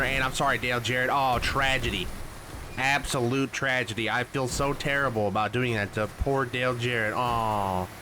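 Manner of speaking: sarcastically remorseful, fake sympathy; mock sincerity. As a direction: lament it with obviously put-on regret. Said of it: "can you hear the sincerity in my voice".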